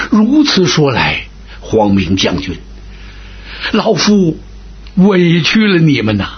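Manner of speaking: put-on an old commander, humbled; lightly voiced remorseful old man; old marshal apologising. Old marshal Huang Gun speaks.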